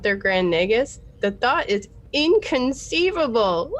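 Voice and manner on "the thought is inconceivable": lightly voiced Vizzini, rising; a hint of Vizzini's indignant whine; Vizzini impression. Shown as a demonstration. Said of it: "I am a terrible, um, at impressions".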